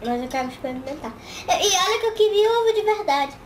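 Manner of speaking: talking around a candy; candy in the mouth; sucking a hard candy. Real, not acted. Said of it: "Tira a bala da boca".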